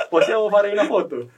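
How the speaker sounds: lightly put-on Italian accent. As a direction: say it with a hint of Italian lilt. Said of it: "pakai logat-logat Itali". (logat Italia)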